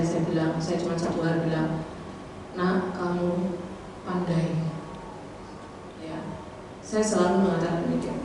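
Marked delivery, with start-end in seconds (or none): 2.5-4.6 put-on slow, tender praise for a small child; gentle to child. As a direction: coax the child softly. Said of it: "Akhirnya saya lembut mengajar". (lembut memuji anak)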